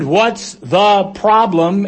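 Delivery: slow, high holler over the storm; yelling back. Acted. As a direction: stretch each word as if shouting across waves. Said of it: "and Jesus answered".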